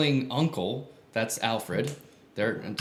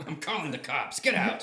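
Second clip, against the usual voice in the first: mock alarm; 3 semitones higher, 3 dB quieter than usual. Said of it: "you're like".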